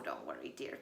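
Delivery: very low, reassuring papa wolf; deep father voice. Acted. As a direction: comfort your wife deeply. Father comforts mother.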